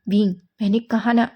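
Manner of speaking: loud, firm rebuke; furious mother sends Wing away; angry mother. Acted. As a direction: shut the door on him with your voice. Mother angrily turns Wing away.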